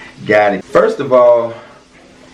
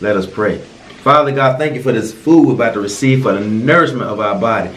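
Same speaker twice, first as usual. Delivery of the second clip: low, hushed mealtime prayer; 3 semitones lower than usual. Acted. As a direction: pray earnestly over the food. Leads a joking grace.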